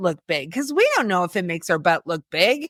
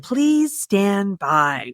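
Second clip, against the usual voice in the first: put-on old radio announcer; 3 semitones lower, much slower than usual. Mock broadcast interruption.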